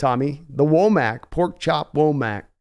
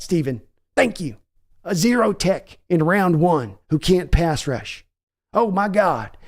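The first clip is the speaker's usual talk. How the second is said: lightly voiced mocking old Texan, higher; sarcastic Jerry Jones; 4 semitones higher than usual. Father mocking son's draft pick, sarcastic Texan voice. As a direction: sneer thanks at your son. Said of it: "Jerry answers son sarcastically".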